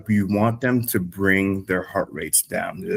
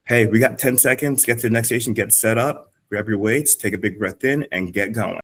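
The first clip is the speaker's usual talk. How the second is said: brisk transition cue; 3 semitones higher than usual. Shown as a demonstration. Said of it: "if you cue that".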